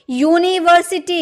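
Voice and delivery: teacher sounding out यूनिवर्सिटी for the class; y sound demo. Shown as a demonstration. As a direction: say यूनिवर्सिटी stressing the य at the start. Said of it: "इसमें भी य का sound आ रहा ना".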